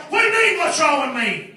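acted-out offended reply; defensive comeback. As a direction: throw the question back, a touch defensive. Retold comeback to the challenge.

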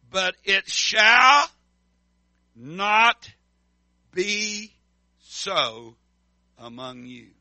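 But it shall not be so, each word slow, shouted and set apart; preacher driving the verse home, word by word; emphatic proclamation. Acted. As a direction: hammer out shall and not, pausing between words.

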